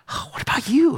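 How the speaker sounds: lifted, searching "what about you"; pointed question. Acted. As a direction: turn it on them, up high. Pastor turns question on listeners.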